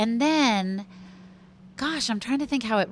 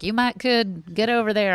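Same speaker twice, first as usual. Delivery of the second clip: a hint of Texan drawl on the double modal; light Texan accent. Imitating how Texans talk, light Texan accent. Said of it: "I don't know why I'm talking like I'm Texan".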